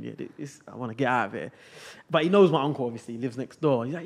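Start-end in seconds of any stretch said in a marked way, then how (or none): 0.0-1.5 quiet thought. Retold or imitated. Inner thought while scared.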